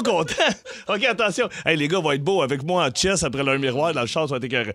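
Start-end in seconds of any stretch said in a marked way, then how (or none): 0.4-1.5 giggling through the words; laughing. Real, not acted. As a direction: laugh while calling attention. Giggles before starting.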